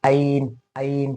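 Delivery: आइन with no constriction in the throat; wrong open onset. Shown as a demonstration. Teacher warning students off, आइन open like alif. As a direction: say आइन with a plain vowel start. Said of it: "ये नहीं करना".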